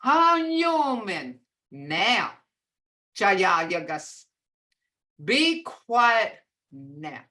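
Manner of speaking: slow stern Hanyomen, Jayayagas; drawn out, firm but not threatening; firm, slow command. Shown as a demonstration. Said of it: "this tone".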